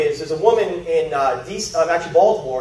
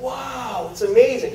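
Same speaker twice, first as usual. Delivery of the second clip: drawn-out, higher wow of amazement; amazed; 3 semitones higher, 4 dB quieter, slower than usual. Retold or imitated. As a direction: retell being wowed by the softness. Retelling amazed reaction to softer hands.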